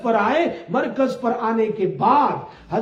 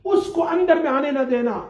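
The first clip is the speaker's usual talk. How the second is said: retold angry complaint; 6 semitones higher than usual. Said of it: "بڑے غصے میں".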